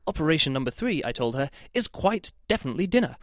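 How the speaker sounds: lilting British reading, pitch jumping up on the key words; mock very-British book voice; funny British voice. Reviewer reading a line from the novel in a funny British voice. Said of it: "put on funny voices in my head".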